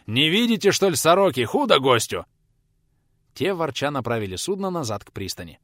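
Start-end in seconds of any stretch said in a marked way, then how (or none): 0.1-2.3 higher, louder scolding shout; yelling at the crew. A narrator's reading. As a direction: bark at the rowers to hurry.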